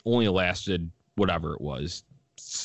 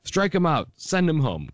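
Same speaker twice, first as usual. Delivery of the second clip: excited fan shout; 10 semitones higher than usual. Retold or imitated. Retelling the announcer's rooting, higher mock fan cheer. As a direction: bark it like an overeager fan in the booth. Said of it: "the all-time quote here".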